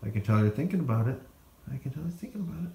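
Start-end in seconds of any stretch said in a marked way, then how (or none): 1.7-2.7 fast hushed whisper aside. Real, not acted. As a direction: whisper it quickly, amused.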